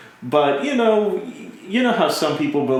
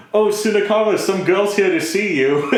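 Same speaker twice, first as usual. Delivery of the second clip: calling out; 6 semitones higher than usual. Retold or imitated. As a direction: call the son to the door. Mother calling out to son.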